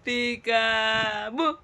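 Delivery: very slow, drawn-out call; playful peekaboo. Real, not acted. Mother plays peekaboo with her baby, stretched and playful.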